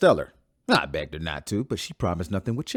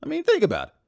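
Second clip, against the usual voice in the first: exasperated outburst; 6 dB louder than usual. Acted. Heated argument about computerized sister.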